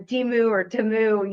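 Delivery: "Temu" as Tee-moo, then "Temu" as Tuh-moo; both pronunciations. Shown as a demonstration. Host offering both versions, "Temu" as Tee-moo or Tuh-moo. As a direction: contrast "Temu" with long ee against "Temu" with short uh. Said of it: "but it's actually Temu".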